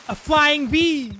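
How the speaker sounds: high, slow, amazed cry; a delighted double take; surprised exclamation. Real, not acted. Sudden odd sight in game.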